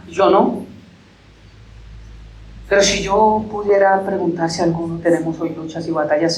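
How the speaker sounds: earnest pastoral prayer to God; closing prayer. Acted. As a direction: pray over the congregation, slowing at the amen. (oración pastoral ferviente y pausada)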